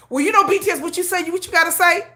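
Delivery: high, laughing gossipy taunt; laughing mock gossip. Mocking gossip, louder retake.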